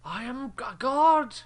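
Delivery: high, slow booming villain voice; dark lord. Retold or imitated. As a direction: boom it like a tyrant demanding worship.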